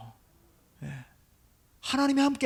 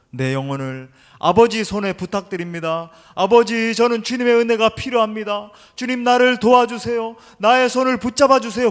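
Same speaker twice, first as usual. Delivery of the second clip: loud, raised-pitch crying out to God; fervent prayer plea; 4 semitones higher, 7 dB louder than usual. Acted. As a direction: build into an urgent plea for help.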